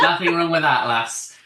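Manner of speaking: light northern accent imitation. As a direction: echo it with a hint of Northern English. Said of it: "talking in a northern accent".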